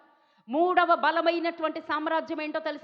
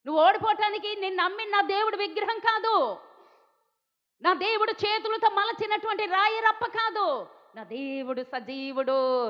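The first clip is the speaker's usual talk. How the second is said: fervent declaration; 5 semitones higher than usual. Acted. King's fervent prayer, declaring God.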